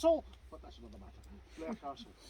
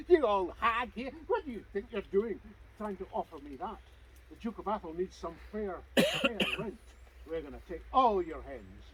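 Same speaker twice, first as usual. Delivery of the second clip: loud, higher contemptuous rent collector; bullying sneer; 3 semitones higher, 4 dB louder than usual. Acted. Rent collectors mocking the widow over her hens, loud bullying sneer. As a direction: sneer down at a helpless old woman.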